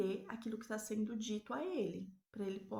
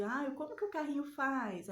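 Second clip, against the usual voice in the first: voz de conversa com bebê; 5 semitones higher than usual. Shown as a demonstration. Pergunta ao bebê.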